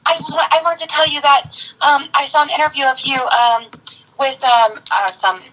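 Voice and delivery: hammed-up brag on the phone; imitating Nicole. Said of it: "She's like".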